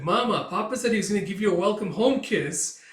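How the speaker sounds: put-on kid tattling. Anya tattling to mom.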